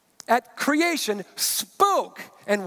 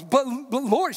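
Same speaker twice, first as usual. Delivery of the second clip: stuttering Martha; 4 semitones higher than usual. Retold or imitated. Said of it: "so I can hear her stuttering".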